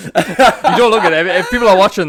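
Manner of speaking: loud laughing protest, slowed. Real, not acted. Laughing teasing about her weight.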